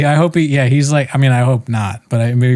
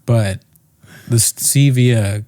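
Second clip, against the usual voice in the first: mock comforting husband; 2 semitones lower than usual. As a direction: pretend to console her while scolding. Tom comforting crying wife.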